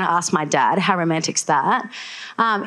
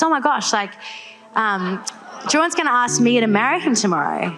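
higher-pitched retold excitement; excited dad; 3 semitones higher than usual. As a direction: imitate a dad bursting with news. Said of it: "My dad's so excited".

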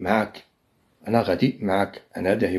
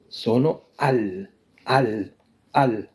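slow demo; much slower than usual. Shown as a demonstration. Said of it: "هذيك راه هي الأصل ديالها".

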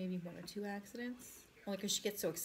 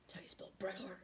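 whispering; 6 dB quieter than usual. Retold or imitated. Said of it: "the way he looked at me and said it".

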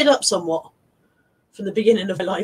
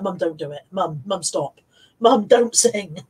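imitating daughter; 5 semitones lower, slower than usual. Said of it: "Natalie's like".

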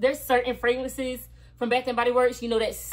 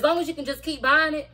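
excited; 5 semitones higher, 5 dB louder than usual. Real, not acted. Hyped advice.

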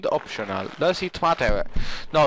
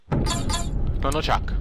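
high drawn-out call; much slower than usual. Acted. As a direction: stretch the name out high and slow. Calling the character, drawn out.

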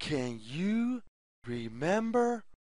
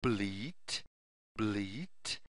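low, soft mock goat bleat; a lightly voiced goat bleat for kids; 7 semitones lower, 5 dB quieter, slower than usual. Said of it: "makes the sound".

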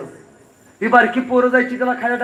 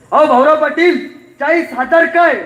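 higher, louder mocking scoff; scoffing politician; 7 semitones higher, 5 dB louder than usual. Politician mocking Bhaurao Patil's request, loud and high. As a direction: laugh off the small amount.

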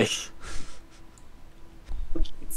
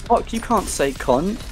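dramatic villain voice; 7 semitones higher, slower than usual. Pretend. Quoting a villain line.

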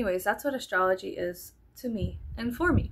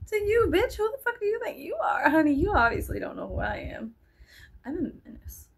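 much higher, sassy diva tirade; mock sassy diva; 8 semitones higher than usual. Vlogger imagines telling off starers, high sassy diva tirade. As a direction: strut it out like a diva. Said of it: "And I'm like".

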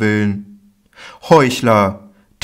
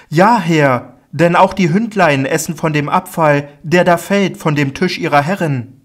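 higher, louder earnest plea; humble pleading woman; 7 semitones higher, 4 dB louder than usual. Acted. Canaanite woman answers Jesus, higher and pleading. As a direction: insist humbly but with urgency.

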